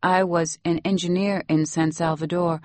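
lightly voiced Salvadoran nanny; Salvadoran accent. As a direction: tell it in Salvadoran-accented English. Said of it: "You have such a nice accent".

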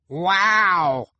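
put-on high, loud baby shriek. A narrator's reading. Baby amazed by the contortionist routine, shrieking. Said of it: "Sunny shrieked".

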